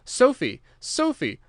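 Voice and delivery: high, loud anguished cry; a desperate shout to his lost love; screaming a name. A narrator's reading. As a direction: scream her name across the room. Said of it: "screaming out".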